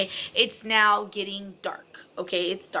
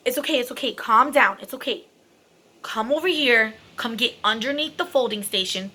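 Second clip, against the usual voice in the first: reassuring. Retold or imitated. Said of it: "so I tell the woman".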